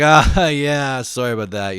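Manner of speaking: mock-sheepish laughing apology; fake embarrassment. Dude caught having sex apologizes to his friend, fake embarrassed. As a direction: act embarrassed, laugh through a drawn-in apology. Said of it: "He did that kind of fake embarrassment".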